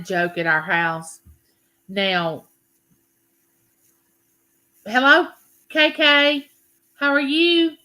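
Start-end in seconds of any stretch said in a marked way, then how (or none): 4.9-7.8 excited greeting. Real, not acted. Greeting a viewer in chat.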